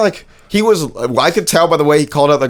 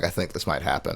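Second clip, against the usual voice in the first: hushed, much softer aside; whispered aside; 7 semitones lower, 13 dB quieter than usual. Retold or imitated. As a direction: say it under your breath. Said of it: "I was like".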